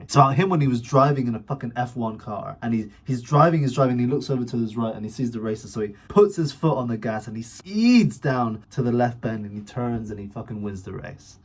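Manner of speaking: lively, emphatic telling of an exciting story; engaging storytelling. Shown as a demonstration. Another guy telling an engaging race story, animatedly. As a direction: build the race excitedly, punching key words. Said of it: "he's telling an extremely detailed and engaging story".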